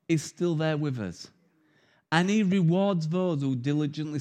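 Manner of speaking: earnest sermon voice, steady and unhurried; gentle preaching. Acted. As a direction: reassure the congregation that God stays. Preaches to congregation.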